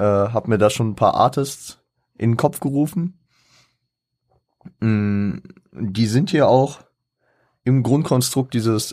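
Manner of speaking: ordinary delivery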